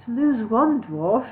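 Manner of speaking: slow, deliberate repetition; slow repeat. Acted. Elf lord repeating his joke to dwarf, slow. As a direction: spell the joke out slowly. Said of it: "Elsker repeated".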